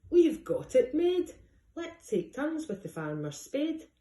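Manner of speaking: 2 high, loud, slow triumphant cry; 3 crow about easy riches; 1 gleeful crook. Acted. 4 thieves gloating about their prize, high gleeful cry.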